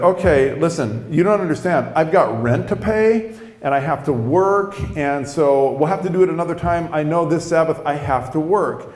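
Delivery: mildly exasperated, insistent explanation; upset. Retold or imitated. Worker with rent to pay, mildly upset. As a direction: re-enact frustrated pleading for understanding. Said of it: "I'm getting upset now".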